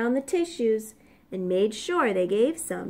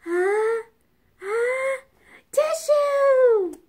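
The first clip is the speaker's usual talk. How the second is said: rising higher and louder into a sneeze; building sneeze; 11 semitones higher, 4 dB louder, slower than usual. Acted. Wolf asks for a tissue, climbing into a sneeze. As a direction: stammer up toward a big sneeze.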